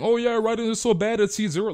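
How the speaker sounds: high-pitched parody of the haters; mocking clown voice. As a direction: squeak it out like a know-it-all clown. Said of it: "the clowns that were saying".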